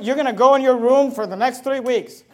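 loud, overdone parental sentencing; mock punishment threat. Mocked parent sending child to room, loud and stern. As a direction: hand down a punishment forcefully.

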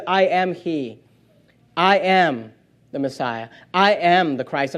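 low, soft, measured declaration; quiet revelation. Acted. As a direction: state it solemnly, dropping right down with pauses. Voices Jesus' answer after woman's declaration.

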